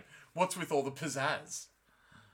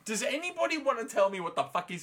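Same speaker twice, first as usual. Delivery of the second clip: louder, incredulous rant; freaking out; 4 semitones higher, 9 dB louder than usual. Retold or imitated. Egwene venting her outrage at the others, loudly. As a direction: demand answers, voice raised. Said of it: "she's freaking out".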